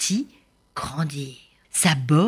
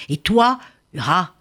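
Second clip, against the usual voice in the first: louder, stern judgment; stern sentence; 4 dB louder than usual. Acted. Prince's father sentencing Hura to carry the hump, stern. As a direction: condemn the jealous sister.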